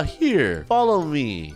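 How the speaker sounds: lightly played creepy stranger; a hint of creepy kidnapper. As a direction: coax a kid along, mildly creepy. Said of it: "I sound so creepy".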